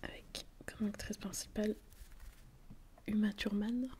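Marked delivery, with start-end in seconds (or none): 3.1-3.9 name said with a light English accent; accent anglais léger. Shown as a demonstration. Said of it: "avec mon bel accent".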